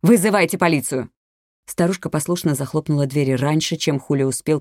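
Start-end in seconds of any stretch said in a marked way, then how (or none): 0.0-1.1 raised-voice order; urgent shout. A narrator's reading. Policewoman ordering an old neighbour mid-fight, urgent shout. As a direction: call out urgently for help. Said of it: "крикнула ей Елена".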